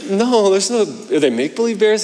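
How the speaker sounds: incredulous. Retold or imitated. Dad questioning son's bears.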